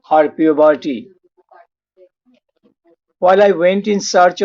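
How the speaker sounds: measured poetry reading with pauses between lines; poem recitation. Acted. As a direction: recite the poem line by line, deliberately. Reads own translated poem aloud.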